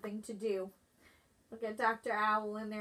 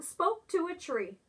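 ordinary delivery

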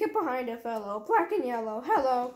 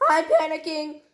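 panicking; 2 semitones higher, 4 dB louder than usual. Acted. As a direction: panicky breathless voice. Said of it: "It's not a tone".

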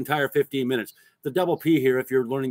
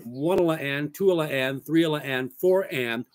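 each group running on to land on "and"; reversed rhythm count; slower than usual. Shown as a demonstration. Drum teacher showing the inverted pattern, rhythmic counting. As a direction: recite "one, la, and, two, la, and" in even groups. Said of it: "it's reversed".

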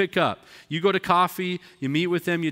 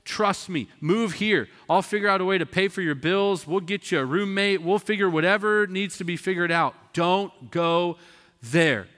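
higher, urgent loving plea; earnest pleading; 5 semitones higher, 3 dB louder than usual. Retold or imitated. Preacher retells pleading with a family member, earnest pleading. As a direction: beg her to stay with you. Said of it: "and I said".

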